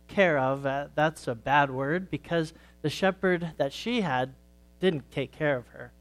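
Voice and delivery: put-on gentle storytelling for kids at church; story read to children. A narrator's reading. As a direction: tell it like a children's sermon story. Reads a children's story aloud.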